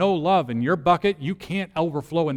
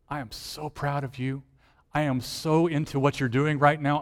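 tender fatherly. Acted. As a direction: speak like a gentle father comforting a struggling child. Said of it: "maybe you need to hear".

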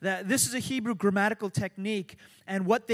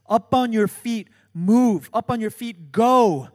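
preaching at full force; 2 semitones higher, 9 dB louder than usual. Acted. Preacher commands congregation to move.

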